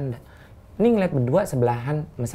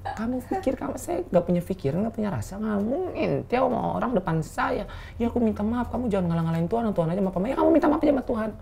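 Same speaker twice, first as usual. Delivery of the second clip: acted hurt rebuke; 8 semitones higher, 6 dB quieter than usual. Acts out angry reply to apology.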